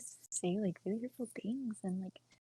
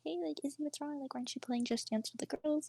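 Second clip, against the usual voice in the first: lightly voiced higher-pitched friend's mom; a hint of a worried mom, pitched up; concerned mom; 6 semitones higher than usual. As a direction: imitate a mom gently checking in. Friend's mom voiced, checking on her.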